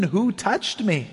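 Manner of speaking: slow, drawn-out mocking repeat of 'Who touched me?'; mocking echo. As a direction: echo 'Who touched me?' back slowly, as if it were silly. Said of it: "the mockery or confusion in their voice".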